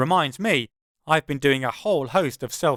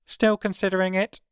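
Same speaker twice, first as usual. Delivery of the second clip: wry; 5 semitones higher than usual. Acted. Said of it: "is her wry interjection".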